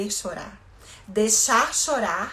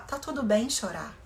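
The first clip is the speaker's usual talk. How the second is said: soothing parent; 4 semitones higher, slower than usual. Shown as a demonstration. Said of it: "A gente vai falar".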